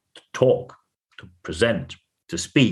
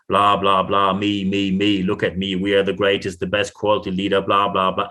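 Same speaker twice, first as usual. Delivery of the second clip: low, monotone self-promotional patter; mock droning pitch; 3 semitones lower than usual. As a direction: rattle off empty boasts on one low note. Mimics a self-promoting sales speech.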